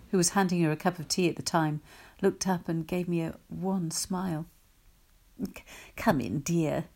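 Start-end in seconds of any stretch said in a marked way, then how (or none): 5.4-6.8 honeyed voice. Acted. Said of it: "she said with her honeyed voice".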